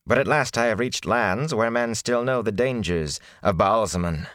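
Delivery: a hint of a smooth, oily flatterer; smooth it over like a courtier; sleek and oily. Prisoner flattering the great lord, lightly sleek and oily. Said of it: "His tone became sleek and oily".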